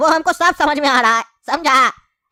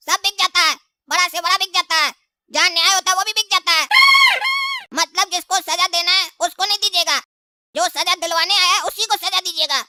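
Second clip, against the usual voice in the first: mildly raised, bitter complaint to the judge; indignant witness; 2 semitones higher than usual. Acted. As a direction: accuse the judge of selling out. Witness accuses judge, higher voice.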